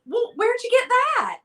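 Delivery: high-pitched, incredulous question; mock astonishment. Friends reacting to each other's finds on video, mock astonished. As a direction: act out a baffled, high-voiced demand.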